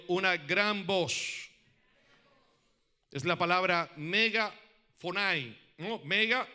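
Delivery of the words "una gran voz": slow, drawn-out words for the church to echo; slow call-and-repeat. Shown as a demonstration. Preacher leading the congregation to repeat, slow and drawn out. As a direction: stretch each word so they can say it back. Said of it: "Diga conmigo".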